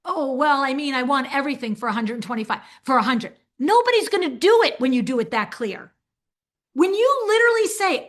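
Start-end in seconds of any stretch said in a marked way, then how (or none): 0.0-3.4 lightly voiced haggling client, a bit quick; a hint of a customer lowballing; breezy client angling for a discount; playing the consumer. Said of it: "I was about to just play the consumer".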